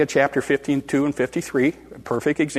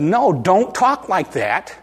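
firm protest, climbing higher as it goes; in-his-face rebuke; 5 semitones higher than usual. Retold or imitated. Peter face to face with Jesus, insistent rebuke. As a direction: push back insistently, pitch rising line by line. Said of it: "got face to face with him in his face".

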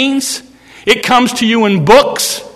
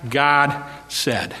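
sly serpent; 5 semitones lower, 4 dB quieter, much slower than usual. Retold or imitated. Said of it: "Satan started out".

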